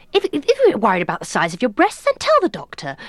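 loud, rising mock-mother urging; embarrassing mother. Mother airing a daughter's private worry, high insistent voice. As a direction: build to a high, insistent order. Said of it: "one of those mothers that would go".

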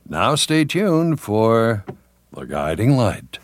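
slow, measured program announcement; old-time television continuity announcer. Shown as a demonstration. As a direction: draw out the lead-in to the show title. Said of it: "what were the typical announcements".

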